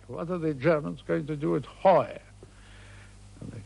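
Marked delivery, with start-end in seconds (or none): 0.1-2.2 triumphant. Retold or imitated. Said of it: "he said triumphantly".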